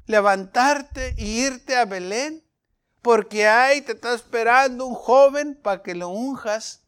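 a hint of God scolding Samuel; the Lord speaking.

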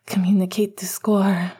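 dazed, slurred mumble; delirious mumble. Acted. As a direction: mumble it half out of it. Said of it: "Sirius mumbled, a little deliriously".

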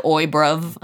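rough London slang. Retold or imitated. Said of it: "Yeah, I said".

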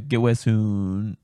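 slow, stretched-out well-wish; oddly drawn out. Real, not acted. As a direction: drag the words out oddly. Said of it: "why I said it like that".

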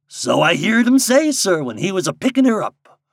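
high, loud rustic dialect; lightly voiced backwoods nonchalance; composed old guide. A narrator's reading. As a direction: answer matter-of-factly as a country guide.

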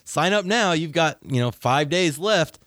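mock sales pitch.

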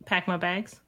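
Upper Midwest vowels, slipping out; a hint of a Wisconsin accent. Real, not acted. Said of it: "say it in a Wisconsin voice".

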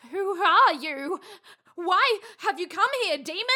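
dramatic fearful challenge. Acted. Confronting a demon.

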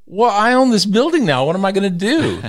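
half-laugh in despair; laughing dismay. Retold or imitated. New owner stuck with a useless building, laughing dismay. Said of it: "I'm like".

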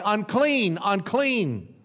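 crying out unclean. Retold or imitated. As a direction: call out 'Unclean' like a leper warning others. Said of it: "and he will cry".

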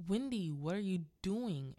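loud, swooping acted protest; calling through door. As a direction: imitate a man shouting through a locked door. Husband bangs on locked door.

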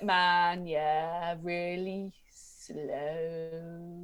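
very slow, chilled stoner; Gru. Acted. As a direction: drag it out like a laid-back stoner. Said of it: "dreadlocked stoner guy".

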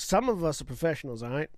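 put-on botched accent, vaguely Australian; off-target accent, faintly Australian; wrong accent. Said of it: "That's the wrong accent".

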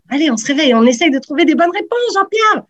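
rousing, rising to a high call on the name; mock-urgent cheerleading; playful pep talk. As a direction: jokingly wake up a lagging contestant. Host playfully rousing a lagging contestant.

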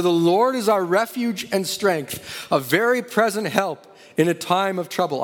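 mildly insistent retold voice. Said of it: "It got louder".

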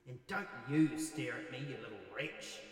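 lightly voiced threatening ghost; menacing ghost. Ghost warning the staring child, mild menace. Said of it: "the ghost says".

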